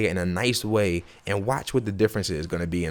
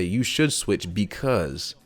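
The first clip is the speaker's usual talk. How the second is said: nice suggestion; much slower than usual. Shown as a demonstration. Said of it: "that is nice".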